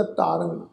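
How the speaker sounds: ਤਾਰੰਗ with long "aa" and nasal "-ang"; nasal ending. Shown as a demonstration. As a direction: end ਤਾਰੰਗ through the nose. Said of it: "ਨਾਸਿਕ ਉਚਾਰਨ ਹੋਏਗਾ".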